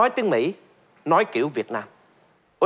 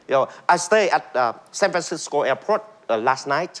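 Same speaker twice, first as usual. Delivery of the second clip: American accent. Shown as a demonstration. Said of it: "như là người Mỹ nói".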